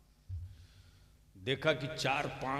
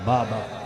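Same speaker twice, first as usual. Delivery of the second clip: बाबा repeated alone, louder, falling; बाबा flung back at the crowd, louder and falling; echoed emphasis; 4 semitones lower, 9 dB louder, slower than usual. Real, not acted. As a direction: hammer the word बाबा home a second time.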